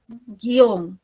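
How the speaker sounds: "guión" said ghion, with silent u; demonstrated pronunciation. Shown as a demonstration. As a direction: model "guión" slowly with no u sound. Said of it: "En el caso de guión, fíjense". ("guión" sin pronunciar la u)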